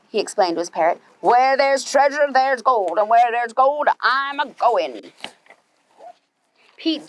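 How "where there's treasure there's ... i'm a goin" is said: gruff hammed-up pirate, drawn out at the end; lightly voiced pirate captain, slowing on the last words. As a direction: growl it like a greedy sea captain. Pete's pirate voice.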